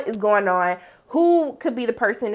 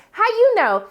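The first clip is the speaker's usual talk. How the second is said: high, louder shocked question; shocked Cassie; 11 semitones higher, 4 dB louder than usual. Retold or imitated. Cassie asks Lexi how she knows, high shocked. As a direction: squeal the question. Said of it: "And then Cassie's like".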